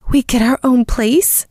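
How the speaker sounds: high amazed question; disbelieving delight at the news; surprised. Acted. Omegas gasp at the news.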